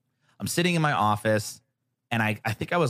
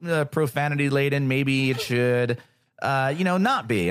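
gently hesitant friend; 3 semitones higher than usual. Retold or imitated. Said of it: "they were like".

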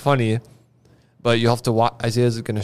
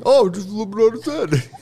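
mock casual; 9 semitones higher, faster than usual. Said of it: "There's no way I'd have that reaction".

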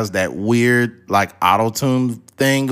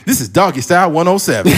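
louder mock station ident; radio announcer voice; 6 semitones higher, 4 dB louder, faster than usual. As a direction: hype it like a DJ drop.

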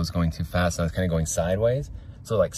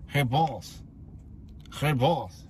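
slimy crony voice; 5 semitones higher, 3 dB quieter, much slower than usual. Acted. Slimy crony calls boss.

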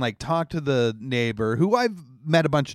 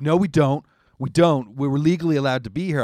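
louder, fast stubborn denial; mock insistent; 5 dB louder than usual. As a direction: push back hard. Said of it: "And they're like".

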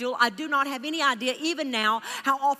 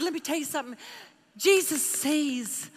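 solemn blessing; 3 semitones higher, slower than usual. Retold or imitated. Preacher telling the stranger Jesus sees her need, slow and tender. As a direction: speak it tenderly and slowly.

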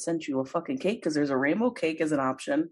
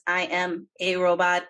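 robot voice. Shown as a demonstration. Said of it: "You gotta say it like this".

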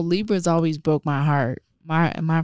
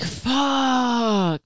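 retold curse; 6 semitones higher than usual. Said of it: "I was like".

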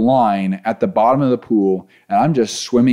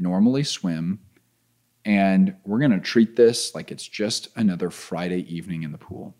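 calming himself down; 4 semitones lower, 3 dB quieter than usual. Retold or imitated. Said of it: "I just took a deep breath".

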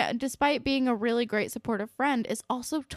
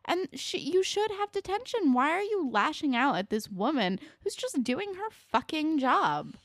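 much higher, exasperated scolding; mock rant; 5 semitones higher than usual. Fan scolding the TV bullies, high and exasperated. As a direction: tell those idiots off, pitch up high. Ranting at the characters.

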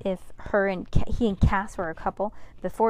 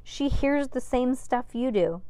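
heated; 6 semitones higher than usual. A narrator's reading. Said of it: "said Max Ernest hotly".

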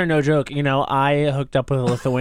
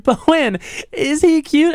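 loud question; 12 semitones higher, 4 dB louder, slower than usual. Retold or imitated. Retelling asking loudly.

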